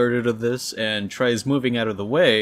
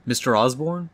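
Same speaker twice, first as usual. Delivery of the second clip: getting his attention; 3 semitones higher than usual. Retold or imitated. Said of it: "trying to get his attention by saying his name".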